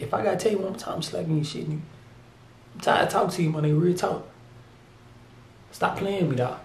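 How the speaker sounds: a hushed, stern warning to the rapper; mock quiet scolding. Scolding the rapper for rapping fast, quiet and stern.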